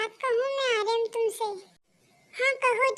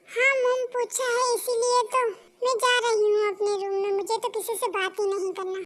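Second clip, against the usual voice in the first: angry storming off. Acted. Daughter storms off angrily.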